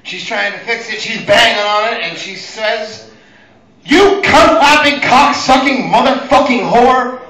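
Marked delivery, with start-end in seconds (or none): 3.8-7.2 high, loud, slow string of curses; hammed-up mom losing it at the VCR; imitating mom screaming swears at the VCR; mock furious swearing. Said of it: "the funniest string of swears".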